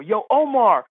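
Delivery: high, excited mock yell; calling back. Caddy calling his golfer brother over, mild mock yell. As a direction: call someone over without much extra volume. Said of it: "he yells back to his brother".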